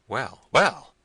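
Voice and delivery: loud, high interjection; impatient. A narrator's reading. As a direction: hurry the servant along. Prince impatient with servant's tale.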